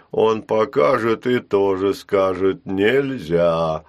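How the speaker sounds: slow, heavy, lightly voiced giant; a hint of a dim clay giant, each word dragged out. Giant Горшеня explaining to Ул, slow and heavy.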